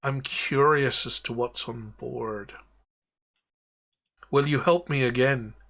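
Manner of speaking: lightly voiced pirate captain; captain granting freedom, then asking a favor; Davy Jones. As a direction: ghost captain asking the party for help. Davy Jones addresses party.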